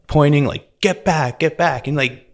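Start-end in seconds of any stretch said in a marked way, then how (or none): 0.8-1.9 higher-pitched mock order, repeated; retold warning without real shouting; raised voice. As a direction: imitate officers ordering someone away. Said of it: "kinda raising their voices".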